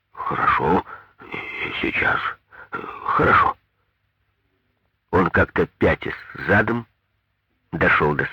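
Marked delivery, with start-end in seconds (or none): 0.1-3.6 babbling. A narrator's reading. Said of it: "обалдело ... пролепетал".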